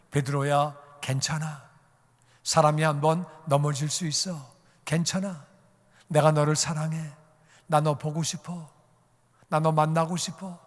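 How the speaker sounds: gently comforting, in short phrases; tender reassurance. Acted. Jesus voiced comforting fallen Peter.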